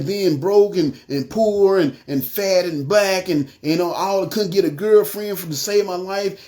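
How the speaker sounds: retold list of grievances, mildly heated; going off on God. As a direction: pile up complaints in mild indignation. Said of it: "I'm just going off on God".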